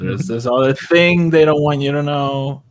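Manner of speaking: mock tempting. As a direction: dangle a secret as bait. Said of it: "He's like".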